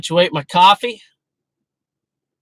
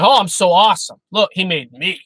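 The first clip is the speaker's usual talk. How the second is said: mock boastful self-praise; 2 semitones higher, 4 dB louder than usual. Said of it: "That doesn't mean".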